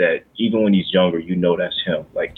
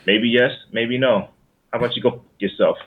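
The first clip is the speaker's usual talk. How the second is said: Departed quote; 3 semitones higher than usual. Retold or imitated. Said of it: "Remember that from The Departed?".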